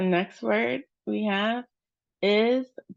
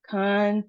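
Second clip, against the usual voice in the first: "Contagious" with a long held "tay"; second-syllable stress; 3 semitones higher than usual. Shown as a demonstration. Teacher showing the long A, stressed second syllable. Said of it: "emphasis on our second syllable".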